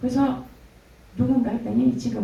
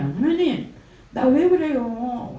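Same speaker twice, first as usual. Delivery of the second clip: louder and higher, slowly pleading; anguished cry to God; 4 semitones higher, 5 dB louder, much slower than usual. Retold or imitated. Asking God why during prayer, slow raised plea.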